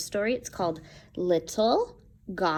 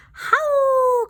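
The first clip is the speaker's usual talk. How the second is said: high, louder howled word; werewolf howl; 7 dB louder than usual. Acted. Werewolf father to his wolvies, howling. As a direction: howl it like a wolf.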